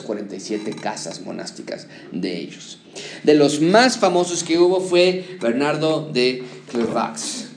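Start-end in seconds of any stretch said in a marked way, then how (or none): 5.4-7.5 Bernardo de Clairvaux in a slow, playful French accent. Shown as a demonstration. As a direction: say the name with a put-on French accent. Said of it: "lo estoy diciendo con mi acento francés".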